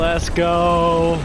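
frat bro. Real, not acted. Cheering the win.

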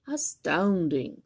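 slow, wondering marvel; amazed monster. Acted. Gruffalo impressed by the mouse, slow awe. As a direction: draw it out in awe. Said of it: "said the Gruffalo".

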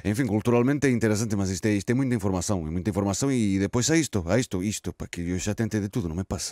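hesitant Portuguese with a put-on Spanish accent; comic Spanish-accented Portuguese. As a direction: stumble through it like a Spanish-accented pigeon interviewee. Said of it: "Este sotaque".

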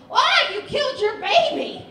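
shrill high accusing shout, hammed up; mock outraged shout; mock angry lady. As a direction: shriek the accusation like an outraged stranger. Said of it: "she got mad at me".

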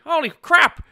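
usual speaking voice

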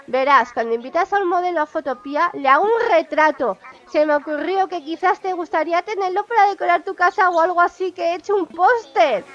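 a hint of an easygoing hippie deer; lightly voiced Fauno. Reading the hippie deer's call to the player, lightly voiced. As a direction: read the deer's call with a light, friendly touch.

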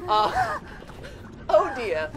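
flustered granny. Retold or imitated. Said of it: "baker impression continues".

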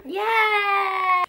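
high happy shout; excited cheer. Real, not acted. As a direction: cheer with delight. Thrilled at sketch offer.

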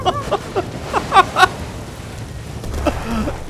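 long, high, breathy laughing fit; hysterical giggling. Real, not acted. Player laughs at the bomb blast, hysterical giggling.

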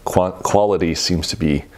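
talking mid-sip; words spoken into a glass; speaking with glass at lips. Real, not acted. Seen 0: Coupe glass held at lips throughout, tasting between words.

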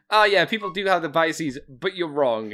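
imitating a smug agree-then-dismiss; mock reasonable, then the put-down; mock agreeable. Mimicking his friend's smug reply, mock dismissive. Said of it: "I like that your response is".

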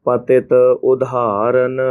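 ਪਤਿਤ, a slight break, then ਉਦਾਹਰਣ; light stop after ਪਤਿਤ; ਪਤਿਤ ਉਦਾਹਰਣ with a short pause between. Shown as a demonstration. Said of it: "ਇਥੇ ਅਲਪ ਵਿਸਰਾਮ".

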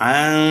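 long nasal hum on আন; ikhfa ghunnah. Shown as a demonstration. Teacher showing ikhfa, nasal drawn-out আন. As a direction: hold the "ন" of আন in the nose. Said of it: "ইকফার গুন্নাহ বলে".

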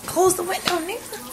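sudden high call across the room. Real, not acted.

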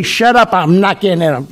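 high-pitched, hammed-up irritation; mock outburst. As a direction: play at snapping, voice jumping way up. Mock outburst during the sign-off.

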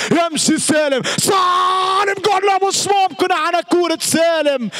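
rising shout on the name, then a groan of disbelief; commentator's shout at a near goal; excited near miss. Real, not acted. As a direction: yell as the ball hits the wall.

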